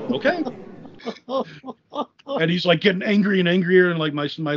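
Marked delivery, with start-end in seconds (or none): 0.1-0.4 higher, small shrugging okay; mock innocent. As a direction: play dumb, lightly. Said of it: "I'm like".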